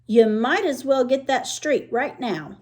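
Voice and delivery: put-on lightly disgusted girl voice; a touch of disgust. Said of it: "sounding kind of disgusted".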